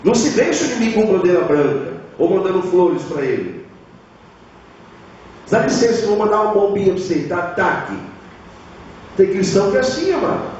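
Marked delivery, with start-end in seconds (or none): 5.5-7.9 mock polite. Mocking timid Christian at war.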